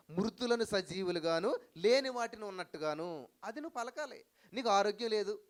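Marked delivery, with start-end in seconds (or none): 0.1-3.3 solemn quote. Retold or imitated. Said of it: "దేవుడు చెప్తున్నాడు".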